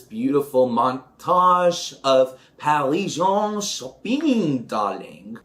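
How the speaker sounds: a hint of a diva gushing shopping, darling; lightly campy glam host; mock glamorous. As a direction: lightly play the Parisian star. Faux-French glam aside.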